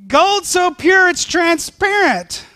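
slow, high, loud, laughing through it; laughing awe. Real, not acted. Preacher to church, laughing with wonder. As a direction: delight breaking into laughter.

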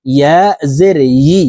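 "ই" opens with a y sound, as yi; mid-tongue ya. Shown as a demonstration. Teacher models ya for students, from mid-tongue. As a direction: say "ইয়া জের ই" with a y-glide from the middle of the tongue. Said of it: "জিহ্বার মধ্যখান থেকে ইয়া".

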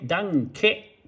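slow ダンケ with the ケ softened away; slow demonstration. Shown as a demonstration. Teacher slowly demonstrating ダンケ to viewers. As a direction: draw out ダン, then let ケ in ダンケ fade. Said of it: "ケは弱くなって".

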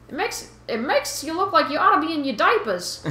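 put-on Boston fish guy sliding toward a southern accent; mock someone small in a muddled Boston accent; slipping Boston accent. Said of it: "No, it's something southern".

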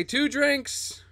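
hammed-up Southern swagger; Southern accent. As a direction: order like a pushy Southerner. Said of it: "I could do a Southern accent".

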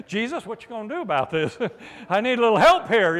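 quick, laughing plea to Jesus; chuckling through a light-hearted request for help; laughing prayer. Pretend.

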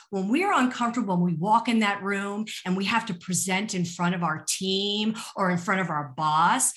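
ordinary delivery

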